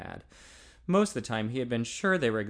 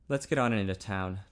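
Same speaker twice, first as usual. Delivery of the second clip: stiffly; 5 semitones lower than usual. Acted. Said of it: "Ted said stiffly".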